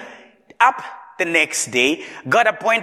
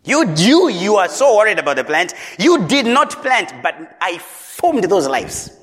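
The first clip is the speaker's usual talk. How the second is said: louder, pressing rebuke; God's firm, louder reproach to Jonah; rebuking God; 3 dB louder than usual. Acted. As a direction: drive the reproach home, louder.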